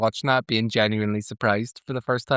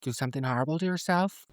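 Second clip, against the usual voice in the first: put-on Northern Irish accent; 2 semitones higher, 7 dB quieter than usual. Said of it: "sounded so Northern Irish".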